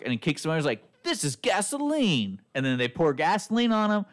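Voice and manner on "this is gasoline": mock villain voice. Retelling villain line.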